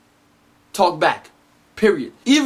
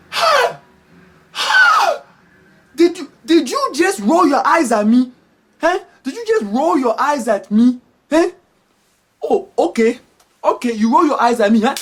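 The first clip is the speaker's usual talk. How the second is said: high-pitched outraged parent; mock parental fury, starting on a squeal; flipping out; 8 semitones higher, 4 dB louder than usual. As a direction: explode in hammed-up disbelief at the child. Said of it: "they are going to flip".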